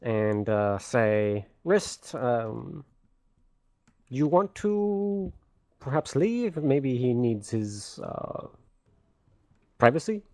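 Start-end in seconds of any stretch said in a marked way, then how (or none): 1.6-10.2 tactful suggestion. Acted. Player's character hints others leave.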